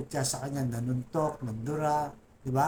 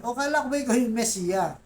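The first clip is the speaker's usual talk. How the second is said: raised, louder jeering voice; mocking taunt; 8 semitones higher, 5 dB louder than usual. Religious leaders jeering at Jesus on the cross, mocking taunt. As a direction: jeer at him as the mocking leaders. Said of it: "na sabi".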